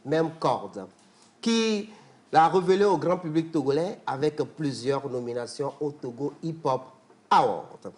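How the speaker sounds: rolling declamation of a griot praising a guest; praise recital. Acted. Host's sidekick praising the rapper guest, declaimed like a griot. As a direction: proclaim his lineage like a praise singer.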